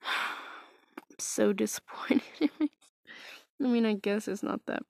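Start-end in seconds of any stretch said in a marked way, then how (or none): 0.0-2.7 real sighing whisper with a laugh; slow whispered confession, chuckling at herself. Real, not acted. Admitting disappointment in herself to viewers, whispered. Sighing self-deprecating aside.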